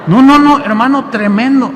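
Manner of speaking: high, loud excited exclaim; overwhelmed with joy; loud high-pitched excitement. Real, not acted. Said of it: "preacher's own excitement".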